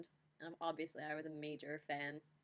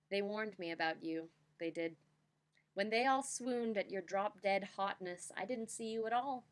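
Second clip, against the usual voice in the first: slam poetry reading. Shown as a demonstration. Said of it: "here I shall attempt my best slam poem reading".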